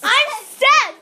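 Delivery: loud laughing protest; indignant shout. Real, not acted. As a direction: shout it, half laughing, offended. Friends forget his name.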